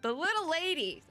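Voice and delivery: hammed-up Texas cowboy accent; attempted Texas accent. Unnamed resident cutting off Wade's lecture, attempted Texas accent. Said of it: "I can't even do that with the accent".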